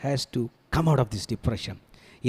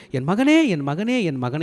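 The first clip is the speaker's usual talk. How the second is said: imitated grieving cry; slower than usual. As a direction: call out like a mourning father. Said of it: "அவர் அழுது கொண்டு". (அழுது புலம்பும் தந்தை போல)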